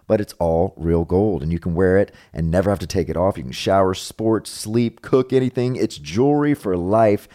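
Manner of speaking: upbeat opening, then easy sponsor pitch; chatty host-read commercial; podcast ad read. Acted. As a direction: read sponsor copy to the listeners.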